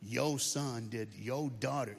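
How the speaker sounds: mom complaining. Retold or imitated. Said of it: "You hear your mom going".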